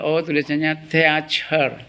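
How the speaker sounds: slow, deliberate reading of teacher; slow checked reading. Shown as a demonstration. Teacher to pupils checking a spelling on Google, reading it out slowly. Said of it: "Kemudian dilihat di Google".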